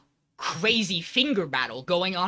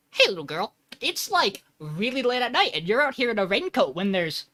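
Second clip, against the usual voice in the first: higher-pitched mock concern for a child; lightly voiced cops; 4 semitones higher than usual. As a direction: act out puzzled cops, lightly. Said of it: "they walk up, they're like".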